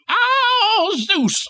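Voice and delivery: high hammed-up yell; mocking the preacher with a high yell. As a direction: yell the god's name like you smashed your thumb. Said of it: "you don't yell".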